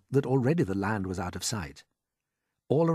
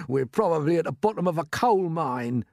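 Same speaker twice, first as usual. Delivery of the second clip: gloomily; 8 semitones higher, 5 dB louder than usual. A narrator's reading. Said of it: "said gloomily".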